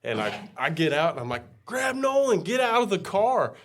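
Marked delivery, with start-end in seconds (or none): 1.7-3.5 high-pitched panicked order; frantic, raised-pitch retold shout; urgent command. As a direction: act out yelling at your wife to flee. Urgent order to wife, acted out.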